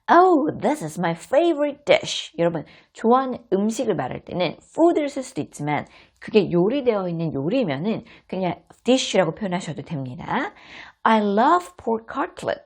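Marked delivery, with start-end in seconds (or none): 0.1-2.3 put-on higher, slow delighted child; excited child. Child thrilled by dish, higher and slow. 11.0-12.6 put-on child voice. Child line.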